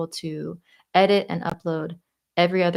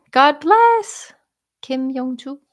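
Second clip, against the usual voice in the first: high loud mock cry; 7 semitones higher, 7 dB louder, much slower than usual. Mock accent bit, high and loud.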